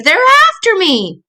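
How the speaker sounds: high, slow, terrified; frightened cry. Acted. Little sister waking from a nightmare, terrified. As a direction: cry out as if being chased. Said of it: "she screamed".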